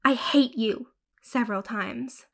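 angry scream. Acted. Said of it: "I finally started screaming".

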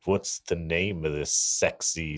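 drawn-out seductive gravel; gravelly voice. Acted. Sexy gravelly voice bit.

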